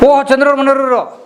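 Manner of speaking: high, drawn-out exclamation; delighted surprise. Real, not acted. Host discovering his colleague's wife, delighted surprise. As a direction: greet an unexpected find with a long, high "oh".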